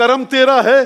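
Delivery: fervent, high-pitched, loud declaiming delivery.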